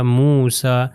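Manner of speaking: موسیٰ with the ya silent, ending in a long "aa"; teacher's careful "Moosaa" for موسیٰ; silent written ya. Shown as a demonstration. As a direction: say موسیٰ as "Moo-saa". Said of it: "مگر اس کی pronunciation جو ہے وہ نہیں ہوگی".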